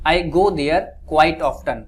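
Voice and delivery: very slow, every word spaced out; slow model sentence. Shown as a demonstration. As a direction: spell it out slowly for the learners. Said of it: "तो क्या बोलेंगे?".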